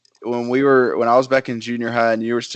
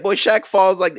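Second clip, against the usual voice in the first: higher-pitched comic impression; retelling a stand-up bit in imitation; lightly imitated comedian, pitched up; Cat Williams; 6 semitones higher than usual. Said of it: "Cat Williams is talking, and he's like".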